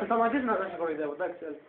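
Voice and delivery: laughing. Real, not acted. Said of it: "Νομίζω ότι γελάς".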